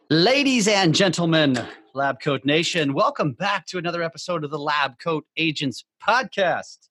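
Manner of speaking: announcer welcome, first words lifted; show intro. Acted. Host welcoming Lab Coat Nation to the show, announcer style. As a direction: open the show like an MC.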